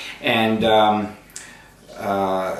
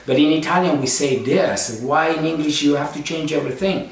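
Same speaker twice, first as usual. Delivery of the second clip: put-on raised, arguing Italian-accented dad; lightly voiced indignant Italian dad; Italian father; 5 semitones higher than usual. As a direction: mildly argue like an Italian father. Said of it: "he always used to argue".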